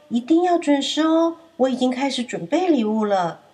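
cheerful reminder. Acted. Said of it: "象婆婆还说：".

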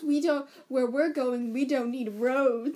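slow, lightly voiced movie-line delivery; quoting Doc. Quoting Doc to her co-host, slow and lightly dramatic. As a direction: savour the famous line, a hint of Doc. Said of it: "he goes".

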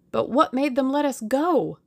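mildly suspicious challenge; suspicious demand. A narrator's reading. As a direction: demand an answer, not quite believing it. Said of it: "demanded Tuppence suspiciously".

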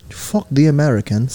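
mock British that sounds Australian; British slipping into Australian. Host attempting British insult, accidentally Australian accent. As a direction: try British and drift into Australian. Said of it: "that's Australian too".

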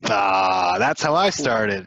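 loud, slow knowing exclamation; a drawn-out loud aha of recognition; eager recognition. Real, not acted. Recalling his first sales job, loud and knowing.

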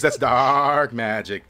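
very slow, heavy "That's dark magic."; ominous satyr. Acted. Satyr warning the elf about the goo, slow and ominous. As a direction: lean into "dark magic" slowly. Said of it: "He says".

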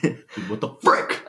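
hammed-up slow dude; slow mock dude voice. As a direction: drag it out, jokey and slow. Joking mild cursing.

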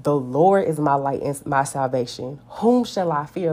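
bold, rising on whom; a fearless, confident challenge to the enemy; defiant declaration. Pretend. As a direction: claim it straight at your circumstance. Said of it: "for me to say to my circumstance".

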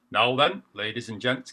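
lightly voiced club boss calling the room; a hint of a chairman hushing the pub; boss calling order. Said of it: "calls boss".

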